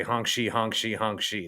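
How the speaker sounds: snoring sound. Retold or imitated. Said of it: "as my kid will say".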